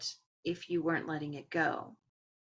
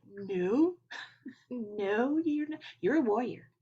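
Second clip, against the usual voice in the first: encouraging; 5 semitones higher, 3 dB louder than usual. Pretend. Higher self urging the runner on.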